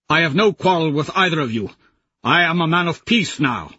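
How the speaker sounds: a hint of a weary old man; old warrior insisting he is done fighting; lightly voiced Lorn.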